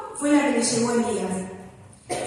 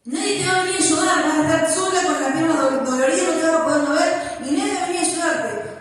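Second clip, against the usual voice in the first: higher, quick taunting voice of the enemy; threatening voice of fear; 4 semitones higher, faster than usual. Retold or imitated. Preacher voices the enemy taunting a woman in pain. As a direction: taunt her that nobody will come.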